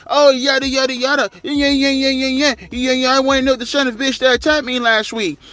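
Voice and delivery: high mock-dismissive voice; high mock brush-off; mocking Sasha. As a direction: toss it off high and bored. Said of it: "She was like".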